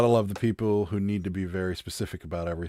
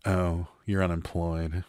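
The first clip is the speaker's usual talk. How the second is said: slow, subdued imitation of pity; soft, drawn-out mock sympathy; 3 semitones lower, 5 dB quieter, slower than usual. Acquaintance learns of the self-employment, mock pitying. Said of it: "kind of that sad look".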